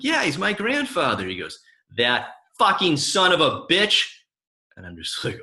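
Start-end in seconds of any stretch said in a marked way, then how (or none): 0.0-1.3 proud yeah. Retold or imitated. Proudly claiming famous grandfather. 2.0-4.0 mock outrage. Old man curses the grandfather.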